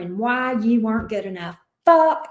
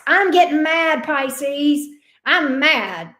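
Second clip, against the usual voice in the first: real rising irritation, pitched up; getting mad; 4 semitones higher, 3 dB louder, much slower than usual. Real, not acted. Tarot reader worked up on Pisces' behalf, getting mad. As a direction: let real annoyance break through. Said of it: "I'm getting pissed off right now".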